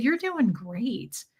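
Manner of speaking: slow, drawn-out praise; pointedly encouraging. Retold or imitated. Customer balancing out a rude person, pointedly encouraging. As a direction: stretch the compliment out on purpose. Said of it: "I purposely did that".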